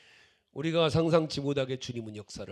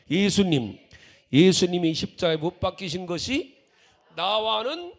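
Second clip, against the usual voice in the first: high, full-volume chant-like cry; big mock-earnest holler; loud, joking shout; 3 semitones higher, 12 dB louder than usual. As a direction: shout the question out as if playing at it. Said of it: "큰 소리로 장난처럼".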